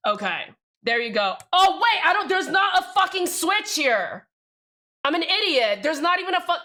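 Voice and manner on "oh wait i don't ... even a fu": alarmed realization. Real, not acted. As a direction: burst out high as you spot your mistake. Suddenly notices a switch is missing.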